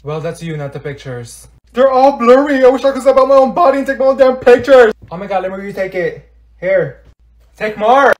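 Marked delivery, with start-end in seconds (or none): 1.7-4.9 high, loud angry outburst; furious high-pitched complaint; exasperated rant. Acted. Furious at friend's photos. 7.6-8.1 high, loud order; raised-voice command; bossy demand. Acted. Demanding more photos.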